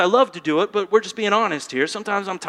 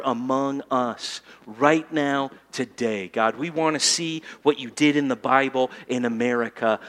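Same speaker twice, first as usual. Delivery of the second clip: intimate prayer; 3 semitones lower than usual. Shown as a demonstration. Demonstrates prayer.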